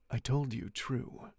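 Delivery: slow cold reply; the Count answers coldly, taking his time. Acted. The Count answering Franz, coldly and slowly. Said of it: "he replied coldly".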